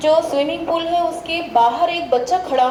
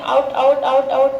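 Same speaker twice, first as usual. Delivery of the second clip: rapid out out out; fast repetition. Shown as a demonstration. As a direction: rush the words like a tongue twister. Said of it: "fast से fast बोलना है". (तेज़ रफ़्तार से दोहराना)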